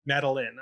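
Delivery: Madeline with a short "lin" ending; settled name pronunciation. Shown as a demonstration. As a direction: say Madeline with an unstressed, reduced last syllable. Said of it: "what's her name".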